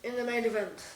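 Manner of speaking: hushed, low nature documentary narrator; nature documentary guy. Pretend. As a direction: narrate softly, like watching wildlife unseen. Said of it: "sounding like a nature documentary guy".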